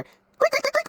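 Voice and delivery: high squeaky creak of a door. Retold or imitated. Narrating the drama, she makes the door squeak open.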